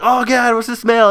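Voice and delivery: shrill high mock disgust; high-pitched gross-out; high disgusted kid voice. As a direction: squeal it like grossed-out kids. Kids reacting to stench.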